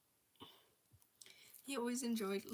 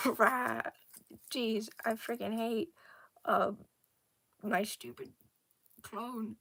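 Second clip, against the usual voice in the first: temper tantrum; 5 dB louder, slower than usual. Acted. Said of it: "throwing a temper tantrum".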